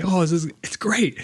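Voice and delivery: imitating a child's awed whisper. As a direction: whisper it like it's magic. Voicing delighted daughter.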